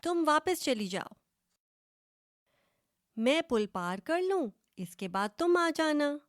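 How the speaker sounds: a demanding little goat, fast and loud; voiced first goat ordering the other back; bossy goat voice.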